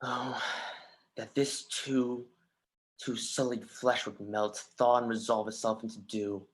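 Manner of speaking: soft, slow, heavy-hearted sigh of despair; a hushed lament to himself; quiet grief. Acted. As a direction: let it fall out slowly, as if too tired to speak. Soliloquy opens alone in grief.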